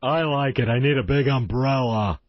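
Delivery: deep voice with a lisp. Acted. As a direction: lisp it in a low put-on voice. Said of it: "going with a little lisp".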